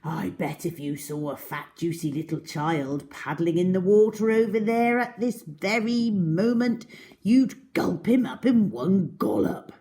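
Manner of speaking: gloating crocodile. Acted. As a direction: relish the gulp. Crocodile tempting, building.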